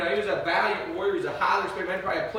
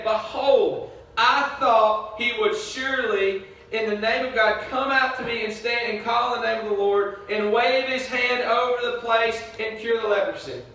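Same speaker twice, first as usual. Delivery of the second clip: indignant, raised preaching voice; furious; 5 semitones higher, 4 dB louder than usual. Acted. Nahum fuming about the prophet who stayed away, furious. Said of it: "But Nahum was furious".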